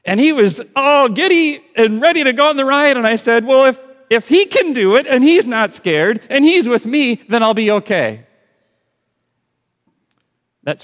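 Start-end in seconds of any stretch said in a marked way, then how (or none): 0.0-8.2 high, loud, rushed mock panic of a nervous father; imitating scared dad. Friend retelling how he nearly bailed on the ride, high hammed-up panic. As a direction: play the frightened dad talking himself into it, pitched way up. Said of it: "he said".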